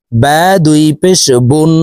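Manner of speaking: বুন with rounded lips and a ringing n; rounded-lip tanween. Shown as a demonstration. Teacher showing double pesh, rounded-lip বুন. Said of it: "দুই ঠোঁট গোল করে উচ্চারণ করব".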